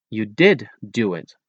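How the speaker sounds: slow, with "did" emphasized; stress on DID. Shown as a demonstration. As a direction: lean on "did" to insist. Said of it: "put an extra strong emphasis".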